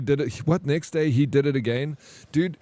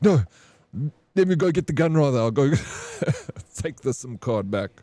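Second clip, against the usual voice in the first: mock bravado; 3 semitones higher than usual. Retold joke about getting gun.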